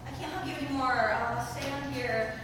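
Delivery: soft, slowing awkward mumble. Retold or imitated. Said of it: "this awkward".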